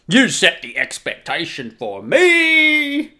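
rehearsed complaint. Retold or imitated. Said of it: "like someone had just turned on a tape".

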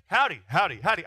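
a light, friendly howdy to each passer-by; a touch of a friendly Texan student; cheery campus howdy. Retold or imitated. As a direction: greet everyone you pass with a quick howdy. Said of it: "So when I was on campus".

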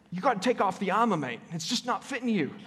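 lightly put-on Australian accent. Pastor imitating the Australian preacher he listens to, Australian accent. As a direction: slip into a playful Australian accent. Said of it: "gave a message with an Australian accent".

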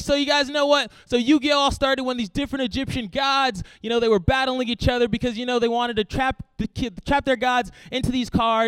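high, loud nerdy enthusiasm, acted; over-eager explaining. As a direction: gush like a kid explaining card-game lore. Retold excited explanation to parents.

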